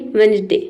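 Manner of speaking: वेडनेसडे said as "wenzday", first D left out; silent D. Shown as a demonstration. Teacher introduces the first word, silent-D pronunciation. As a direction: model वेडनेसडे with no D sound before the N. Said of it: "वेडनेसडे नहीं पढ़ते".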